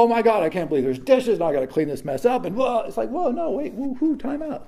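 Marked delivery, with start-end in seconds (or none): 0.0-2.4 fast. Pretend. Mocking shocked host. 3.1-4.6 high. Pretend. Mock alarm at complaint.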